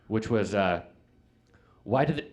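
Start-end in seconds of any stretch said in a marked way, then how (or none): 1.8-2.2 halting restarts with pauses, voice rising; stuttering kid. Retold or imitated. Kid at stuttering show tries telling a joke, stuttering. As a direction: get stuck and start over each time. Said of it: "That took two full minutes to get out".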